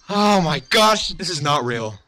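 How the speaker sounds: stunned delight; awed. Real, not acted. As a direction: stretch it out in disbelief. Staring at the new card.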